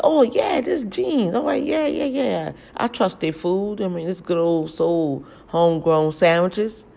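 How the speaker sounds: high, bubbly retold gush about the store; excited gush. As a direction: gush like you just walked into your favourite spot. Retelling her own excitement at store.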